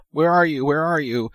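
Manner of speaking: urgent, fretting wife on the phone; panicked demand. Retold or imitated. Wife calling her missing husband in a panic, mock-panicked.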